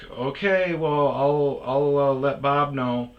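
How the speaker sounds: chirpy office voice, lightly put on; secretary voice. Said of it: "she's like".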